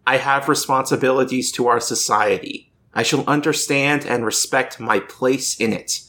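measured, declamatory reading of a solemn pledge; creed recitation. Acted. Host reading the Octus Canon to co-hosts, formal recitation. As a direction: recite it like a formal oath, phrase by phrase.

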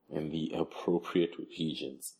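slow, quiet mocking repeat; mocking echo. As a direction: drag the phrase out teasingly. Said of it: "he said".

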